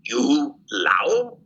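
slow, questioning, lightly voiced officer; retold interrogator. Lieutenant questioning a captured airman, retold interrogator's voice. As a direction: imitate a blunt question in limited English. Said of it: "he looked at me right in the eyes, and he says".

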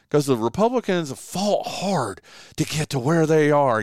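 hammed-up, overdone delivery; exaggerated voice. Shown as a demonstration. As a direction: ham it up for effect. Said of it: "an exaggerated voice there".

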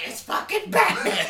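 high, loud, drawn-out cry; hammed-up high yell of recognition; mock startled crowd. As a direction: shriek it like an alarmed bystander, laughing. Acting out startled bystanders.

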